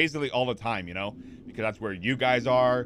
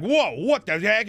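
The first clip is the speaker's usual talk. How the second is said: sudden loud, high, drawn-out whoa; yelling outburst; 8 semitones higher, 5 dB louder, slower than usual. Retold or imitated. Streamer showing chat how he jumps from chilly to yelling, loud outburst. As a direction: burst into an incredulous yell. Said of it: "I'll be, like, yelling".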